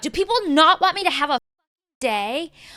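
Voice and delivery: screamed-out, shrill, loud screaming outburst. Retelling how she screamed out at her phone: imitating someone screaming. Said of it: "she screams out".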